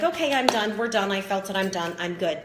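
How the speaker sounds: rushing to be done with the feeling; brushing it off. Retold or imitated. Coach mocking a two-minute cry, dismissive. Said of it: "be like".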